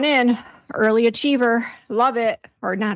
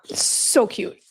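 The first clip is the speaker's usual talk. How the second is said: whispering. Real, not acted. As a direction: whisper it fondly. Watching dogs with toy.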